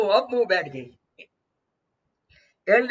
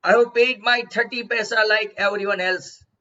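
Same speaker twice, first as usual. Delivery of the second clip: proud haughty; 3 dB louder, much slower than usual. Retold or imitated. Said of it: "उसने काफी proudly, काफी हॉटीली बोला".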